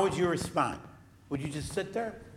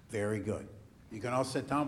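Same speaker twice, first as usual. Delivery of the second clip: usual speaking voice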